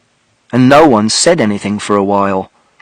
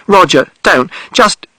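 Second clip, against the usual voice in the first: mother shouting; 6 semitones higher, slower than usual. A narrator's reading. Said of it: "And mother shouted".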